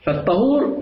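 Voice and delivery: الطهور said "at-tahur", with an a; fatha on first letter. Shown as a demonstration. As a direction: say الطهور with a short a after the ط. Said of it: "بالفتح تدل على الآلة".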